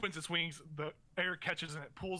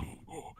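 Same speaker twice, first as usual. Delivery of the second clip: short, quiet imitation of a heavy laugh; chesty beast laugh; 8 dB quieter than usual. Game master imitating the beast's echoing laugh, low-key chesty chuckle. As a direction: puff out a mock monster chuckle. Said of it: "very, very chesty laugh".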